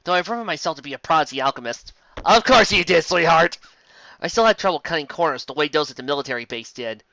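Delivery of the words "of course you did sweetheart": sarcastic. Acted. Sarcastic retort to narrator.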